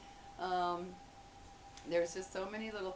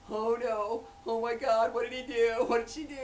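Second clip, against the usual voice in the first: loud parental panic, rising in pitch; acted panic; 4 semitones higher, 7 dB louder than usual. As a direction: fire off worried questions, getting higher. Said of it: "you just kinda panic".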